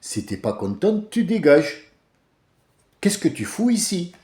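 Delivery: curt mock retort; North African retort. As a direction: snap it dismissively. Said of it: "des réponses à la nord-africaine". (réplique sèche à la nord-africaine)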